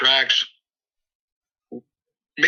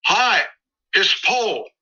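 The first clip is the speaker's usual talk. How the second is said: a higher, light take on a caller's friendly hello; imitating the caller; 7 semitones higher, slower than usual. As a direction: lightly voice the man on the phone greeting you. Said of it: "the phone call is like this".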